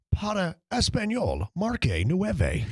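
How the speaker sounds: slow, polished automated phone menu. Retold or imitated. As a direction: read it like the recorded hold message. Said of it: "you sound like the dude on hold".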